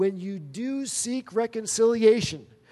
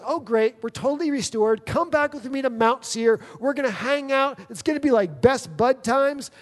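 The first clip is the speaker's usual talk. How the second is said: higher and brighter, upbeat invitation; eager Esau; 5 semitones higher, 3 dB louder than usual. Retold or imitated. Esau inviting Jacob to Mount Seir, eager. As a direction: sell the reunion like a best buddy. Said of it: "what Esau is essentially saying".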